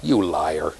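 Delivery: low, deadpan "you liar"; mock accusation. Teacher teasing students over pronunciation, low mock accusation. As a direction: drop low to accuse in jest.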